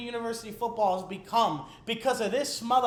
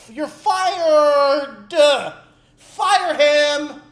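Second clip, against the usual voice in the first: loud, hammered demand; angry shout; 8 dB louder, much slower than usual. Real, not acted. Fan demanding the coach be fired, angry shout. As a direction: bark the verdict at the coach.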